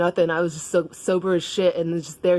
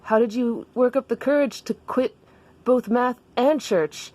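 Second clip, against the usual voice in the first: high, admiring character voice; Daniel; 6 semitones higher than usual. Acted. Daniel asks Jessica about her courage, high-pitched. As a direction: ask in a raised, put-on voice. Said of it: "And Daniel's like".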